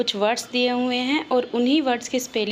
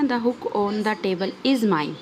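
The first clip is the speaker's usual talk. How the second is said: example sentence read out slowly; teacher reading the example slowly; slow read-aloud; much slower than usual. Shown as a demonstration. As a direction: dictation pace, word by word. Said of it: "एक example दिए हुए हैं ना".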